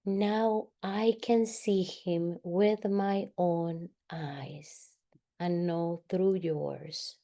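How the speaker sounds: slow, measured affirmation trailing softly; guided affirmation. Shown as a demonstration. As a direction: give each word room, as if to be repeated. Models a healing phrase to repeat.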